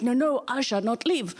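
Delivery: lightly voiced French accent. French ambassador refusing the president's order, mock French accent. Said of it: "the French ambassador was like".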